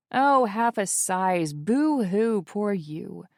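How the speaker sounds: mock pity. Mocking friend's complaint.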